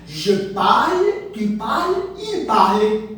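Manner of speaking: "Je parle, tu parles, il parle" said slowly, every "parle" sounded the same; French pronunciation. Shown as a demonstration. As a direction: drill the three "parle" forms alike for students. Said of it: "mesma pronúncia". (pronúncia francesa lenta, os três "parle" iguais)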